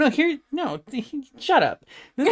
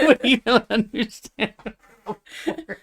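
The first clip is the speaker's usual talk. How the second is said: laughing imitation. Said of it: "the way you said it".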